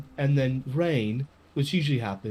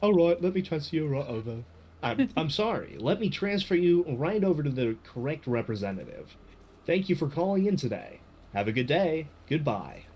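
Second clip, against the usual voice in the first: customer service voice. Acted. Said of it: "customer service voice".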